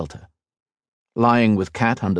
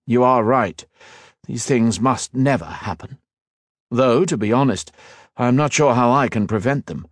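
thoughtful elf lord; 5 semitones higher than usual. Acted. Liniel agrees, unsure.

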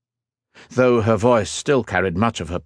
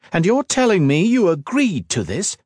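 high-pitched, incredulous fury; enraged demand; 10 semitones higher, 3 dB louder than usual. A narrator's reading. Woman confronts her fiancé over his agreement, enraged. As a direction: demand it in rising outrage. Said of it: "her features contorted with rage".

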